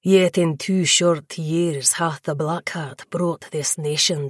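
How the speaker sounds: a regal predator savouring his words; lightly voiced vampire lord addressing the fledgling; ancient vampire lord. The speaker's long speech in character.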